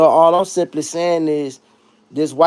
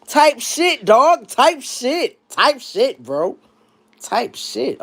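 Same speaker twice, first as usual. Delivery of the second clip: mock white guy slang; 6 semitones higher, much slower than usual. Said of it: "when I hear a white person say".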